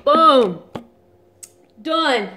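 loud triumphant "Boom"; triumphant shout. Real, not acted. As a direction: shout of victory at the finish. Finished the challenge.

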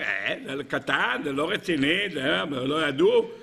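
slow, dismissive defence lawyer; playing it down. Defence advocate minimizing the offence, dismissive. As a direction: wave it away as a trifle, slowly. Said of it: "בדרך כלל הסנגור אומר".

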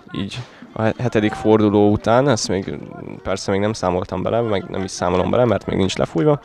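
normal talking voice

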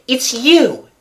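high, agitated exclamation; feverish cry. A narrator's reading. Raoul recognizes the stranger blocking him, feverishly. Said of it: "in a feverish voice".

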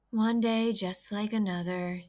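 slow, weary groan. Acted. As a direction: drag it out, fed up with the day. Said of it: "he groaned".

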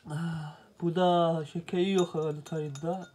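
just after a sip of tea; talking over a sip of tea; while sipping a drink. Real, not acted. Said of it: "Bir çayımızda bir yudum alayım".

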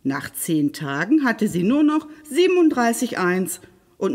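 lively, expressive fairy-tale narration; storyteller for children, varied pitch; story narration. A narrator's reading. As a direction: read a fairy tale aloud with animated emphasis.

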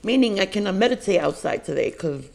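speaking with food in mouth; mumbling between bites; talking while chewing. Real, not acted. Seen 1: Ate pasta at -9; jaw and lip chewing motions continue while talking.

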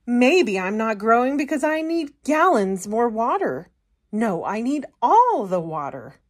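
lightly voiced eager plant; a hint of greedy sprout; Sprout demanding water. Sprout wanting more water.

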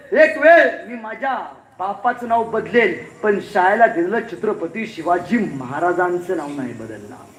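slow, firm vow that sinks to near silence; proud refusal. Acted. Bhaurao Patil refusing the politician, slow and firm. अंगातला स्वाभिमान जागृत झाला.

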